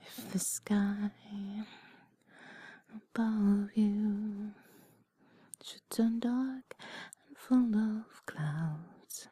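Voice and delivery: slow whispered lyrics. Acted. Whispers song lyrics slowly.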